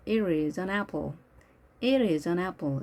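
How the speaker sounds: American-style "It is an apple", T softened to an R-like flap; soft American pronunciation. Shown as a demonstration. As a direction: run "It is" together as a soft "i-riz". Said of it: "이렇게 부드럽게 발음을 합니다". (미국식으로 It is의 T를 R처럼 부드럽게)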